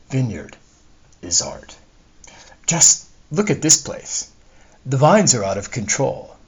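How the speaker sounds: expressive audiobook reading in own voice; first-person story narration. Acted. Author reads a discontented wife's soliloquy to readers, animated narration. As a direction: read it as a wistful, aggrieved character's monologue.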